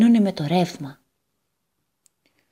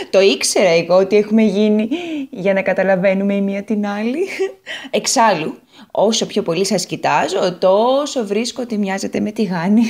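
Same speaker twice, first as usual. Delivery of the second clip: an eager little potato telling her woes; bubbly potato voice, pitched up; Potato character voice; 3 semitones higher, 5 dB louder than usual. Acted. Potato speaks fondly.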